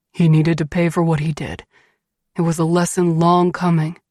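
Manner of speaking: firm, slightly deepened husband voice; resolute Beast. A narrator's reading. Beast justifying revenge to his wife, resolute. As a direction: pronounce it as deserved justice.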